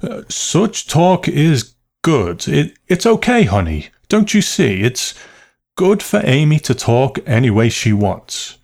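high, strained, insistent cheer; wanting to be overheard. A narrator's reading. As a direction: proclaim approval for an unseen listener, stammering. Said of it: "wanting to be overheard tone of voice".

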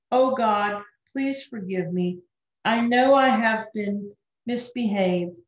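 mild sobbing prayer. Acted. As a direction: plead to God through gentle sobs.

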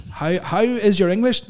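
over-enunciate each word loudly; mock doctor talking down, loud and slow; loud slow patronising doctor. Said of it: "speak really loud and slow".

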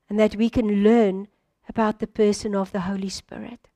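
congregation prayer, calm and reverent; closing prayer. Acted.

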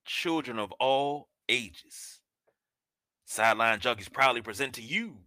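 slow, booming showman announcement; ringmaster. Acted. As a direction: open the show like a circus ringmaster. Circus-style show opening.

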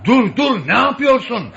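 urgent yell to halt them; alarmed shout. Acted. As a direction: stop them in a panic. Stopping men dumping sand.

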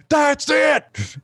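high mock shout of rage; hammed-up trucker yelling; furious trucker. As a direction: snap like you're about to throw something. Trucker loses his temper.

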